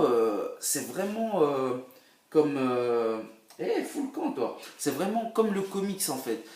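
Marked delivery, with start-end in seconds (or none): 3.6-4.6 mock tough guy. Voicing a gruff character.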